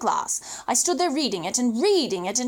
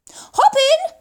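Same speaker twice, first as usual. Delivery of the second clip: higher and louder, bright invitation; cheerful call; 12 semitones higher, 8 dB louder than usual. Acted. Pelican invites the boy into its beak.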